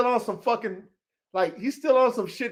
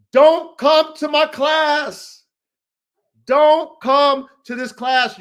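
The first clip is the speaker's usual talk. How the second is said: slow, loud warning, each word spaced; slow, emphatic loud warning; stern warning; 3 semitones higher, 4 dB louder, much slower than usual. Real, not acted. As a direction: warn them off slowly and firmly. Rant, warning off frauds.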